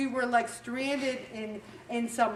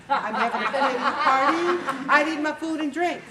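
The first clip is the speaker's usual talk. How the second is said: laughing pity party; 2 semitones higher, 4 dB louder than usual. Pretend.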